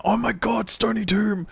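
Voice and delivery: high, startled cry of dismay; shocked outburst. Real, not acted. Gamer seeing the zone he dreads, high shocked cry. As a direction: jump up in pitch at the bad news.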